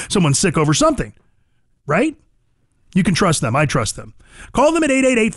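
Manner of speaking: conversational host-read sponsor spot; punchy, friendly commercial pitch; radio ad read. Real, not acted. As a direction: sell the service to listeners. Reads a sponsor ad.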